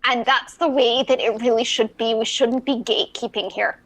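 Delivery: put-on pirate accent. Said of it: "it's Talk Like a Pirate Day".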